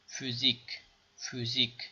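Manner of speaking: فیزیک said FÜ-ZIK; teacher drill; umlaut demo. Shown as a demonstration. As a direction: round the vowel of فیزیک.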